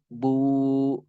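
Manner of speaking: BU with a long held vowel; mad asli. Shown as a demonstration. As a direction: stretch "bu" out evenly. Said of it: "Dikasih waw sukun". ("bu" dibaca panjang)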